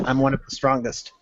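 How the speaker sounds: understated smirk, softly said. Acted. Troll knight answers the newcomer about strength, quiet smirk. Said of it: "He smirks and says".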